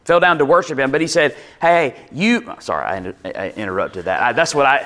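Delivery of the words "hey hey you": angel stopping John. Acted. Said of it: "That's my little interpretive in".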